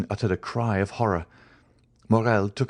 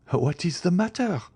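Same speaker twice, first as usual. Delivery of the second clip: high, constrained question; restrained harshness in a raised voice; harsh, constrained; 10 semitones higher than usual. A narrator's reading. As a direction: ask it stiffly, pitch raised. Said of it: "in a harsh and constrained tone".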